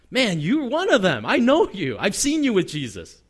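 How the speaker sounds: mock confrontation, pointing out the culprit; insistent finger-pointing, acted out; acted accusation. Servant girl's accusation acted out.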